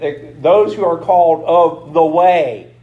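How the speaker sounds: ordinary talk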